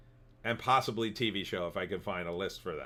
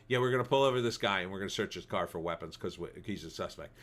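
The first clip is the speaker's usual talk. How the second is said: Seagal impression; 3 semitones lower than usual. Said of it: "I can't do Steven Seagal".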